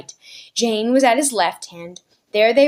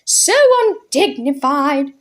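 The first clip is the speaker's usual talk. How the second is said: moaning; 6 semitones higher, 4 dB louder, slower than usual. Acted. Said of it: "they heard her moaning".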